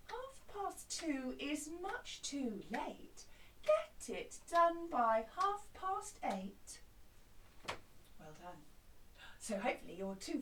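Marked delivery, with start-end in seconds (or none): 0.1-6.8 relaxed cobbler answering back; not so bossy. Shown as a demonstration. Cobbler calmly answering the customer, less bossy. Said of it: "your not quite so bossy cobbler".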